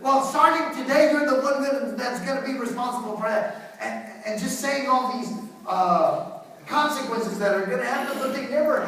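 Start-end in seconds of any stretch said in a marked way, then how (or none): 0.0-3.8 mock screaming parent. Parent telling a child who is responsible now, mock scolding. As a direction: lay down the law in a mock scold. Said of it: "it's always just screaming".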